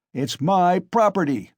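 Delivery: high, loud defiant yell; angry shout. A narrator's reading. Mikolka answering the crowd about his mare, loud defiant shout. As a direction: bellow it back at the crowd. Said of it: "shouted Mikolka".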